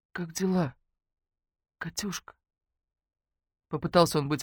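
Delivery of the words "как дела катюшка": much softer, feeble forced cheer; dying man's voice. Acted. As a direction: sound half-dead but try. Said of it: "голос его звучал точно у умирающего". (голосом умирающего)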